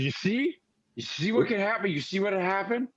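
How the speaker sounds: high, slurred tipsy rambling; tipsy old islander warning a stranger; drunk old local. Acted. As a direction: lecture him like a drunk barfly. Drunk Randy lecturing Nico.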